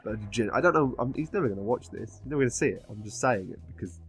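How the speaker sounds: slightly tipsy, loose speech. Real, not acted. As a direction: talk like you've had a lot to drink. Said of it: "because I'm on a lot of alcohol".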